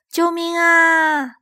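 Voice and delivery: high, drawn-out strained cry; crying for help again. Acted. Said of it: "艾玛再次哇哇大叫".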